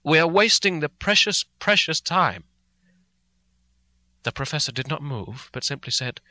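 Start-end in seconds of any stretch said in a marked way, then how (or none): 0.0-2.4 louder, impatient plea; crying out. Acted. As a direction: push hard, desperate to move. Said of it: "I cried".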